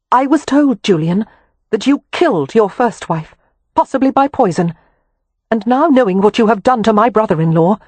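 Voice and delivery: high, loud, steady menace; cold threat. A narrator's reading. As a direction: promise to burn him, deadly serious. Wynne threatens Harrow.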